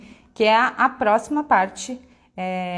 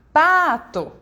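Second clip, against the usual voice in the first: PATO called out with a long, loud PA; stress on PA; 7 semitones higher, 6 dB louder than usual. Shown as a demonstration. Teacher calling a word to find its tonic syllable, stressed PA in "pato". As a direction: stretch the first syllable of "pato". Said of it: "a sílaba que a gente fala mais forte".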